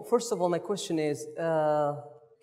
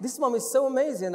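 amazed reaction; 5 semitones higher, 3 dB louder than usual. Retold or imitated. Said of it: "I was like".

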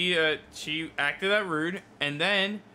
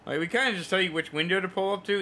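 talking over her, faster; 3 semitones higher, faster than usual. Retold or imitated. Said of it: "I just complete my sentence anyway".

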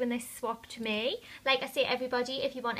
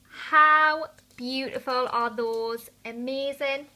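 excited; 2 semitones higher, 7 dB louder, slower than usual. Real, not acted. Admiring the gloss.

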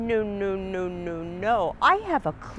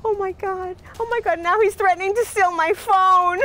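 shrill anger; 9 semitones higher, 7 dB louder than usual. Acted. Panicked fake call to police.

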